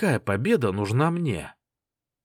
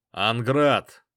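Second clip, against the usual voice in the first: louder, ringing announcement; referee's call; 4 dB louder than usual. Acted. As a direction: call the fight start loudly. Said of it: "закричал судья".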